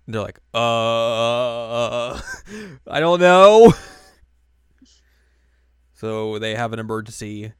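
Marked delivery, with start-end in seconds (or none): 0.5-3.8 sheepish laugh. Retold or imitated. Friends admitting they lost Yui, sheepish laugh. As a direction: laugh it off awkwardly. Nobody knows where Yui is.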